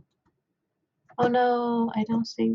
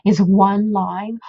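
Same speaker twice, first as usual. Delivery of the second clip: disbelief; 7 dB louder, much slower than usual. Retold or imitated. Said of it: "I was like".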